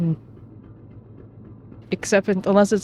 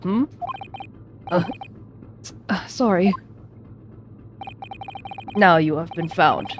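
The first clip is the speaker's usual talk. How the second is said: game characters voiced. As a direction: act out the interrogation scene.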